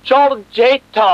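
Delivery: lovestruck greeting. Acted. Man greeting the woman he loves, lovestruck. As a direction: stretch the name out adoringly.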